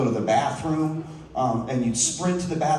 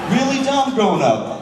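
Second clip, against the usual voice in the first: higher, louder shout of really dumb; 9 semitones higher, 4 dB louder than usual. Real, not acted. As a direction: yell it out to the crowd. Shouted punchline about dumb childhood.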